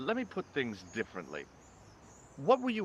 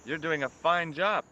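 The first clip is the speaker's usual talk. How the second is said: sarcastic; 4 semitones higher than usual. Acted. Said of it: "I'm being sarcastic".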